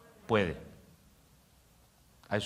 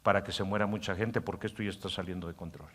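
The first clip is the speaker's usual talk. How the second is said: softer, low-key plotting voice; scheming inner voice; 3 semitones lower, 5 dB quieter than usual. Acted. Pastor voicing the inner voice planning a pandemic, hushed scheming. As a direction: plot it quietly to yourself. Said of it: "El hombre interior dice".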